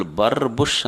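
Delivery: rolled "brrr-bush" sound effect; imitated whoosh noise. Preacher mimicking people's complaint about money slipping away, imitated whoosh. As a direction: mimic a quick rolling whoosh.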